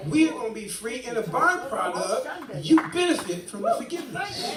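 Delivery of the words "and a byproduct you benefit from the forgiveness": higher, louder, laughing through it; real laughter at the irony. Real, not acted. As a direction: let a laugh break in.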